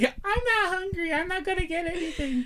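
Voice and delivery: high, squeaky mock girl voice; mocking Kate. Mocking his friend Kate's excuse in a high voice. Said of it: "Kate's like".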